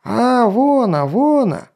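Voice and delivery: high loud yelling. Acted. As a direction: yell out the discovery. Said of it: "завопили".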